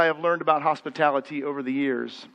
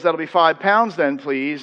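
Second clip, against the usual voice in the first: British till clerk; slower than usual. Retold or imitated. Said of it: "the person at the till says".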